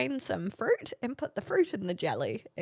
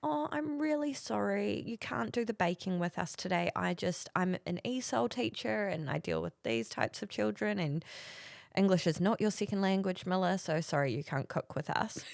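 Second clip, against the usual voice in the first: soft, sugary apology; mock-sweet teacher saying sorry; imitated sweet teacher; 4 dB quieter than usual. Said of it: "so sweet. She was like".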